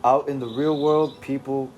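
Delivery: put-on loose British accent for David; attempted British accent. David telling the reader about his mind, in a rough British accent. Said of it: "this will have to do".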